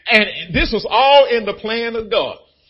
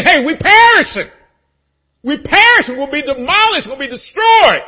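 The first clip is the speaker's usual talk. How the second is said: panicky unbeliever; 5 semitones higher, 8 dB louder than usual. Retold or imitated. Voicing the unbeliever.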